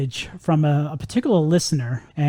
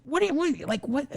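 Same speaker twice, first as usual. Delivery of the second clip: higher, incredulous what, what; mock disbelief; 9 semitones higher, 8 dB quieter than usual. Replying to the listener's message, mock surprised. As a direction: play baffled at the complaint.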